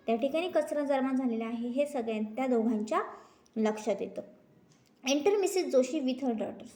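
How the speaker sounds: normal talking voice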